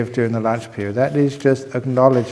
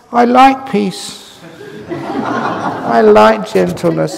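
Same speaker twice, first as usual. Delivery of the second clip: slow, higher, with a laugh; laughing fondness; 8 semitones higher, 4 dB louder, much slower than usual. Real, not acted. Monk answering why he stresses kindness, slow laughing fondness. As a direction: savour each liking, chuckling. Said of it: "I put so much emphasis".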